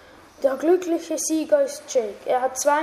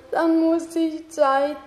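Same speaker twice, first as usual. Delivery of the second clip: wailing; 2 semitones higher, slower than usual. Acted. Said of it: "heulte Jake".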